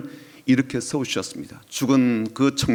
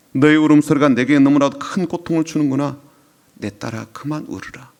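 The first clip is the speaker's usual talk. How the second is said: tender plea fading. Retold or imitated. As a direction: begin full, then soften to a tender hush. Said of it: "그런 의미죠".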